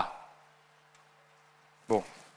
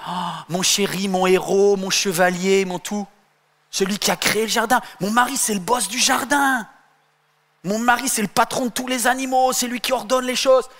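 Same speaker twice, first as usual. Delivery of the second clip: adoring wife; 3 semitones higher than usual. Acted. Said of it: "vous imaginez Ève qui devait se dire".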